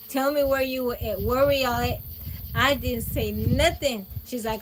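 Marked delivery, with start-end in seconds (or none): 0.1-2.0 a hint of a mad aunt demanding, louder; angry aunt. Aunt questioning her niece about where they went, mildly angry. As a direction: press her for an answer, voice raised. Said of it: "My aunt is mad".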